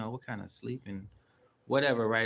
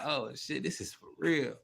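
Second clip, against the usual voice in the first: mildly raised retold exclamation; alarmed realization; 4 semitones higher than usual. Storyteller realizing the dream was real, mild alarm. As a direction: let the realization lift your voice a little.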